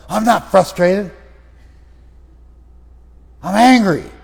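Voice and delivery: high, loud angry protest; acted anger. Client correcting the listener's guess, angry. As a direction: correct the listener with a heated outburst. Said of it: "You're angry about it".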